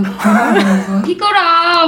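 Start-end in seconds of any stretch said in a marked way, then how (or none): 1.1-1.9 lightly nasal cute call; high coaxing aegyo whine. Retold or imitated. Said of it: "그냥 콧소리 내면서".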